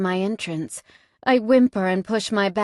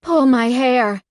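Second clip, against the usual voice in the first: higher, louder, slow groaning demand; rasped needy command; groaned rasp; 4 semitones higher, 6 dB louder, slower than usual. Acted. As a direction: push it out on a groan, drawn out. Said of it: "I groan and rasp".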